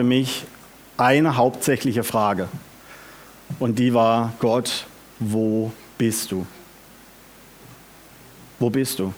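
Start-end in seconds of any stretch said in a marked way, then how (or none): 4.4-9.1 a lonely, quiet call for God; despairing cry to God. Acted. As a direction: ask into the emptiness, barely aloud. Imagined desperate cry to God.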